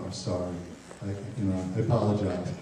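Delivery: soft, subdued apology; meek apology. Shown as a demonstration. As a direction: back down quietly, dropping the voice. Models a parent's apology to teen.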